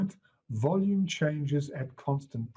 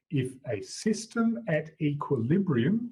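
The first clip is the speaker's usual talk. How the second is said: "equilibrium" lifted higher at the end of the phrase; stress on EQUILIBRIUM; 5 semitones higher than usual. Shown as a demonstration. Teacher rereading the definition to students, stress on "equilibrium". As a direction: lean on the word "equilibrium". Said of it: "just to put that emphasis on the equilibrium".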